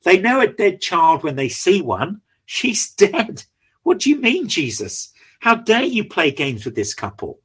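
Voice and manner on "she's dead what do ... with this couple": scoffing mourners. Acted.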